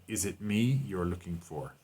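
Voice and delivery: "me" gently emphasized; light weight on the word "me"; stress on me. Shown as a demonstration. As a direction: make "me" the focus of the question. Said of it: "the emphasis is on me".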